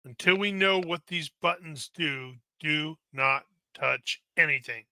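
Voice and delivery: firm command. Acted. Commander ordering.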